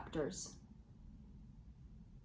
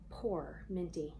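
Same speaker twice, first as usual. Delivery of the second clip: sympathetic; 2 semitones lower, 6 dB quieter, slower than usual. Acted. Pity for injured girl.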